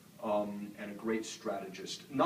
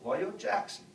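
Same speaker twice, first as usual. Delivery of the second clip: higher-pitched imitation of a Southern greeting; Southern accent; 6 semitones higher than usual. Doctor King greeting a white kid from the North, imitated Southern accent. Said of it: "my best rendition of the Southern accent".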